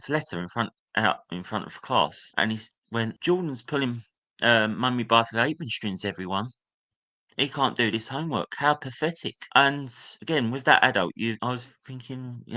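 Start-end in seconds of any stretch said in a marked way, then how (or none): 3.2-9.3 sneering, pitched higher, imitating the teacher; mocking teacher. Teacher reading the letter aloud to class, sneering mockery. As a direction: ridicule him to the whole class.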